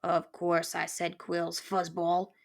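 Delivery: slow, lightly voiced grouch; a touch of impatient contempt; irritated porcupine. Porcupine confirming quills to the mouse, mild irritation.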